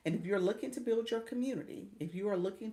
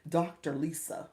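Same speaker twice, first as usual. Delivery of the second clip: mock serious; 4 dB louder than usual. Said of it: "trying to be serious with me".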